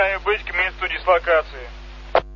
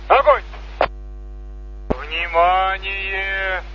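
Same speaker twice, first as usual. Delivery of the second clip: military commands; slower than usual. Real, not acted. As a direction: call out firing commands. Salute firing commands over loudspeaker.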